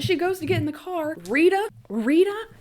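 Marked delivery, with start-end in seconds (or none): 1.3-2.5 high, loud call of a name. Acted. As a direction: call her across the parking lot. Calling out to the nurse.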